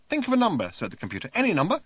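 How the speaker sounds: computer voice. A narrator's reading.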